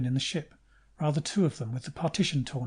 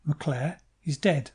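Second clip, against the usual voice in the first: distinct, flat; slower than usual. Acted. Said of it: "distinctly, without much emphasis".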